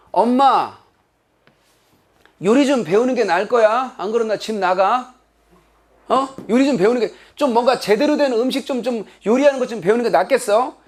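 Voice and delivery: put-on cheeky kid lightly threatening mom; mildly bratty warning; mock threatening child. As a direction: give mom a half-serious, insolent ultimatum. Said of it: "막 이렇게 얼음장 놓는다는 얘기겠죠".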